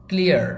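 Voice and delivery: ক্লিয়ার said fast as one syllable "klia"; quick correct pronunciation. Shown as a demonstration. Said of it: "একটু তাড়াতাড়ি বলতে হয়". (তাড়াতাড়ি একটানে "ক্লিয়ার")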